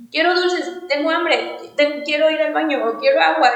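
a hint of a whining child asking for candy; whiny kid. Complaining like a kid on the bike ride, lightly whiny. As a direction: mimic a little kid begging, lightly. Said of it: "como estos niños te dicen".

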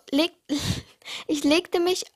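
laughing at own misreading. Real, not acted. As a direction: giggle over the slip.

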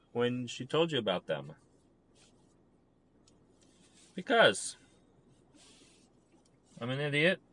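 soft, hushed confession; quiet, sad musing to the camera; quiet and downcast. Real, not acted. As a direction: murmur it like a heavy-hearted admission. Quiet sad confession before pause.

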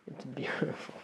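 breathy hushed whisper, almost voiceless. Real, not acted. Musing to the listener about the brain, whispering. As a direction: let it fall to a soft whisper.

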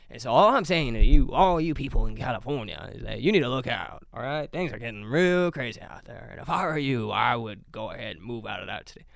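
lightly put-on black preacher delivery; a hint of a preacher warning the flock. Warning Californians to look out, mock preacher voice. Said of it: "I feel like a black preacher".

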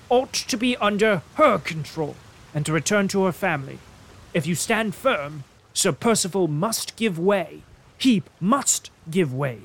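firm lawyer's insistence. Acted. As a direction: press him hard for a plain answer. Lawyer pressing firmly.

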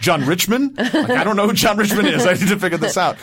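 laughing, rising bewilderment; amused puzzling. Retold or imitated. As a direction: puzzle over the name with a laugh. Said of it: "I'm like".

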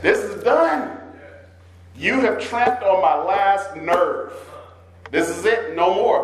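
high exasperated outburst, then slowing; fed up. Retold or imitated. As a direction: at the end of your rope. Exasperated person at breaking point.

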